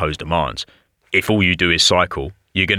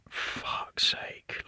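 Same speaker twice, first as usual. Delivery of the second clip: whispered, drawn-out expletive under the breath; hushed retold swearing; whispered curse; 14 dB quieter than usual. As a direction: whisper it in dread, as if watching helplessly. Retold muttered dread during lift.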